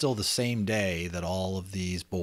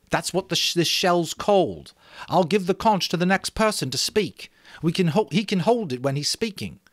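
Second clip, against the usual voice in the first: put-on higher, louder boy leader; Ralph; 10 semitones higher, 4 dB louder than usual. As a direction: lay it out to the boys. Ralph explains the conch.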